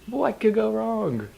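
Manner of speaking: high, slow mock villain voice. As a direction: ham up a cartoon villain. Mocking villain's grand line.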